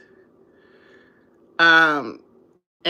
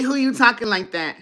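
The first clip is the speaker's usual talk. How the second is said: sassy scolding; 4 semitones higher than usual. Retold or imitated. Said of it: "I say".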